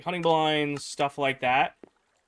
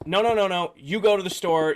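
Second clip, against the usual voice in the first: higher, louder mock objection; indignant refusal; 4 semitones higher, 4 dB louder than usual. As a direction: cut him off like a demanding customer. Customer flatly rejects his offer.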